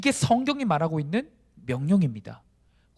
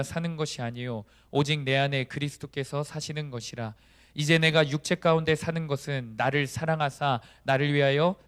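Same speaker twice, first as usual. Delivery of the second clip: scripture recitation. Acted. Preacher leading the congregation in reciting Galatians, measured recitation. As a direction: recite the verse evenly for everyone to follow.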